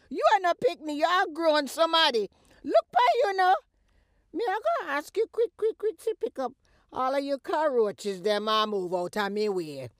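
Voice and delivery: high, loud furious eviction; angry shouting. Acted. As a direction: throw her out of the house. Mother throwing daughter out.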